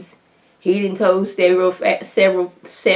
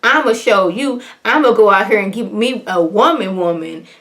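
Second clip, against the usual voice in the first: mock realization; 3 semitones higher, 3 dB louder than usual. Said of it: "I was like".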